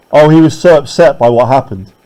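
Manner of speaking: mock sympathy, dry; sarcastic. Shown as a demonstration. Teacher paraphrasing with mock sympathy. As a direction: say it as if you don't mean it. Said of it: "The exclamation mark is kind of sarcastic".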